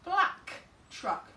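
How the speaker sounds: black truck with black stressed, falling; modeled phrase. Shown as a demonstration. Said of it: "You might write something like".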